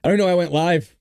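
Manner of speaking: high, tearful voice, choked with sobs; really crying, pitch climbing as you try to talk; breaking down crying. Real, not acted. Grieving streamer breaking down live to viewers, crying. Breaking down on livestream about a death.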